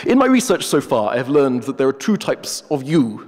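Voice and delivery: a hint of a haughty professor; pompous wolf. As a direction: play the wolf as a self-important academic. The wolf lectures.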